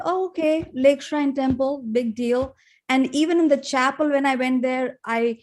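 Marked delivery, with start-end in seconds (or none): 0.0-2.6 higher-pitched shrug of a big deal; mock dismissive. Recalling her first visit, mildly unimpressed and offhand. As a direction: brush it off as nothing special. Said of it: "And to me, it was like".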